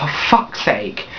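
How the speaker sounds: slow whispered frustration; slow exasperated whisper; whispered curse. Retold or imitated. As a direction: breathe the curse out under your breath. Retold frustrated reaction.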